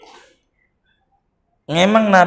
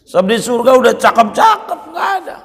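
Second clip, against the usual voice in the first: preaching shout; 9 semitones higher, faster than usual. Real, not acted. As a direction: call it out to the crowd, fast. Seruan semangat berkhotbah. (seruan lantang dan cepat ala khotbah)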